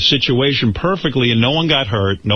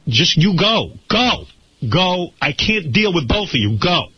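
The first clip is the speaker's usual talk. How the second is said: higher-pitched, insistent plea to leave; urgent retold command; 7 semitones higher than usual. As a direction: replay an exasperated order, pitched up.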